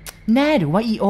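put-on old cook demanding the maid be sure; almost shouting. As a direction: nearly shout the question. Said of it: "ยายแป้นเกือบตะโกน".

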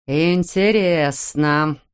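very slow, ominous drawl; lightly voiced threatening father; menacing drawl. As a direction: stretch the word out while pacing. Father repeats it pacing.

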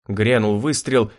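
usual speaking voice

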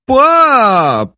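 stern warning. Acted. Zoya warns her father across the table, sharp and loud. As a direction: cut your father off. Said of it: "суворо попередила Зоя".

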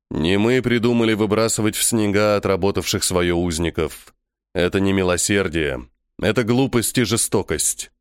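lightly voiced low, sober captive; subdued alien captive. Vangur defends his people to his accusers, subdued.

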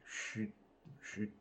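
barely audible "chute, chute"; hushed echo fading away; whispered echo. Acted. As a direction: breathe "Chute" almost without voice.

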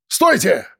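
mild cry of alarm. A narrator's reading. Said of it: "крикнул редактор".

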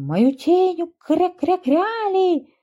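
panicked duckling quacking mid-word; quacking alarm. A narrator's reading. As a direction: wail like a robbed duckling. Закричал он.

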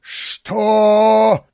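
loud, high roar of outrage; terrible roar. A narrator's reading. Father discovers his son, roars furiously. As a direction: bellow in fury. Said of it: "страшным голосом взревел".

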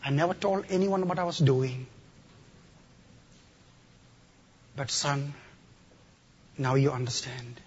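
soft, hushed mother's voice; tender quiet. Retold or imitated. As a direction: speak softly like a mother. Dead mother speaking to son.

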